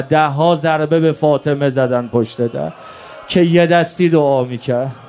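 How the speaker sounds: impassioned elegiac preaching; mourning sermon. Real, not acted. Preacher telling mourners of Ali's last will, impassioned lament. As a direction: carry the deathbed story as a sustained lament.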